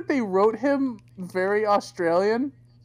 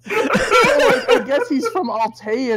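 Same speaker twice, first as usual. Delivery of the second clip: laughing; 9 semitones higher, 4 dB louder, slower than usual. Real, not acted. Still laughing at own joke.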